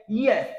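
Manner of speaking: "yes" said as "yeth", the ending alone; the "-ieth" sound. Shown as a demonstration. Teacher demonstrates the ending's sound, "yes" pronounced "yeth". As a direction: make "yes" a falling "ee-eth" sound. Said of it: "qui vient faire son".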